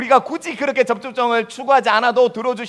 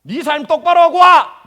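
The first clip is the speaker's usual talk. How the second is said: stern God rebuking; 7 semitones lower, 6 dB louder than usual. Acted. God rebuking a praying believer, low then booming.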